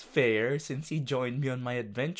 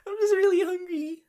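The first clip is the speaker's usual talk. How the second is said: whispered whine; 6 dB louder, faster than usual. Pretend. High fast whisper.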